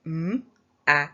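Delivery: each sound said apart with a pause between. Shown as a demonstration. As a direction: segment "M-A-G-P-I" sound by sound. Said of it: "let's sound out our word".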